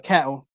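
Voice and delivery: attempted British "cattle" with swallowed T's; British dropped T's. Shown as a demonstration. Mock British attempt that co-host hears as Australian, "cattle" without T's. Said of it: "That sounded Australian".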